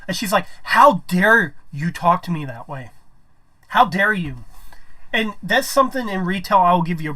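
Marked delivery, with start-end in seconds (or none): 0.6-4.4 louder, drawn-out indignant retort; mock outrage. Irate customer scolding the cashier who swore, mock outrage. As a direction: imitate an offended customer, stretching the words out. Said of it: "She ends up losing it".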